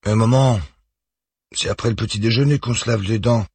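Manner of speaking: put-on a small boy correcting his mother, worried; lightly voiced anxious boy; worried protest. A narrator's reading. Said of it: "proteste-t-il d'un air inquiet".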